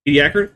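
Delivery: Ediacaran as ee-dee-AK-uh-run, rising; questioning echo, stress AK in Ediacaran; echoed pronunciation. Shown as a demonstration. Host trying the co-host's way, Ediacaran as ee-dee-AK-uh-run. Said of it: "We'll go with that for now".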